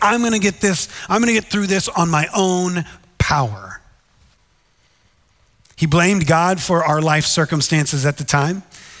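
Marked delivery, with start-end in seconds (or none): none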